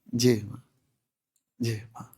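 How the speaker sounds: soft, fading humble yes; meek bowed reply. Retold or imitated. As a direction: murmur it head bowed to an elder. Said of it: "Dia nunduk gini". (jawaban lirih sambil menunduk)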